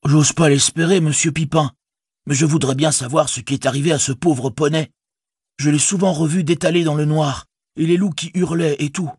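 high-pitched hobbit voice, concerned for a pony. Acted. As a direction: speak up high as a worried, simple hobbit. (voix de hobbit haut perchée, inquiète)

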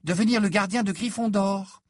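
leaning hard on the words; heavy stress. A narrator's reading. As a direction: press on "devenir le gardien de Gryffondor". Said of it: "Elle appuya lourdement sur le mot".

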